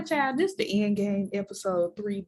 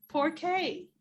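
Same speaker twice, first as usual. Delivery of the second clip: mock French; 10 semitones higher than usual. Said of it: "I'm gonna be like".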